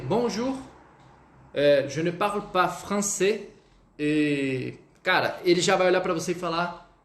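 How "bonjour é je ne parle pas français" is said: slow "je ne parle pas français"; teacher modelling survival French; basic French phrase. Shown as a demonstration. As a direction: say it carefully. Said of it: "saiba ao menos dizer".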